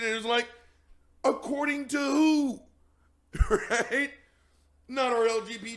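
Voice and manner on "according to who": loud rebuttal. Real, not acted. Challenging claim.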